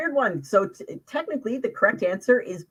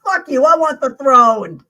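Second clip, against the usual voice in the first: loud, high mock outburst grabbing the throne; Macbeth's outburst; 6 semitones higher, 12 dB louder than usual. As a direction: bellow it like a greedy would-be king. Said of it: "before Macbeth went".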